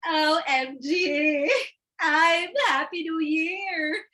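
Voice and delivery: a hint of a chatty Marites; mildly voiced gossiping sister; gossipy sister. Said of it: "a la Marites demo".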